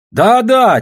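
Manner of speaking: plain reading voice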